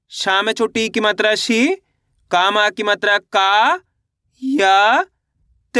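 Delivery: शी, का, या drawn out slowly with rising ends, then त; syllable by syllable. Shown as a demonstration. Teacher spelling out a word for learners, syllable by syllable. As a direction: sound out each letter separately: शी, का, या, त. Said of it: "एक एक अक्षर का उच्चारण करके".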